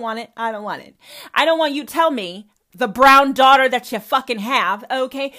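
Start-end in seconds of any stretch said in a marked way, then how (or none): 1.3-5.3 loud angry outburst; furious. Real, not acted. Daughter confronts her mother about racism, furious and loud. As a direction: let it rip at your mother.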